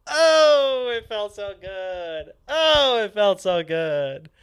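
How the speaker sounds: high, loud bursts of delight; gleeful relief. Real, not acted. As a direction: savour the joy.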